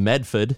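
"Medford" said the Boston way, as MED-fid; local Boston pronunciation. Retold or imitated. Quoting people met in Boston, "Medford" with no R. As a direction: drop the R in "Medford". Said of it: "that's how they all said it".

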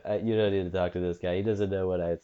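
nineties Trump on a roll; light Trump impression, dismissive rant; Donald Trump. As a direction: rattle off insults as Trump. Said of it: "You're doing nineties Trump".

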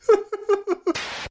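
high bursting laugh. Real, not acted. Laughs at situation.

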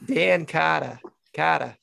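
tentative stab at a Kiwi accent; New Zealand accent. Shown as a demonstration. Host trades accents with his guest, attempted New Zealand accent. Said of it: "your best New Zealand accent".

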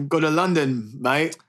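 playful bad British accent; London mate in a hammy British accent; mock British accent. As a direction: put on a rough London accent. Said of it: "gotta work on that accent".

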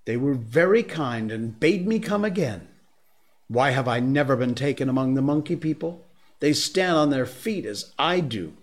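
put-on a child begging to go back and play; defiant man cub. Mowgli defiant.

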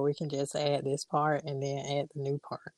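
soft whispered aside; whispering. Real, not acted. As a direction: whisper it off-mic. Aside about editing.

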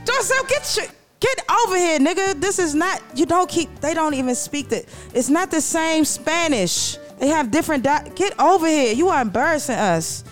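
embarrassed scolding. Acted. Wife scolding Dorcel in the street, hushed and embarrassed. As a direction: hiss him back in line, mortified. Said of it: "Dorothy was embarrassed".

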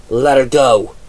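mild, forceful growl. A narrator's reading. Shinzo demands Penny's release, growling. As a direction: order it with restrained anger. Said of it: "Shinzo growled".

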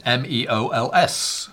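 slow, separated letters, spelled out for listeners; spelling it out. Shown as a demonstration. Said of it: "Mark will spell it for the audience".

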